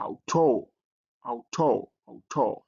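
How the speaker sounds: auto opening with the ow of out; pronunciation demonstration. Shown as a demonstration. Teacher showing the ow diphthong, auto carefully repeated. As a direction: repeat auto for learners, first vowel as in out. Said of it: "you pronounce it as in out".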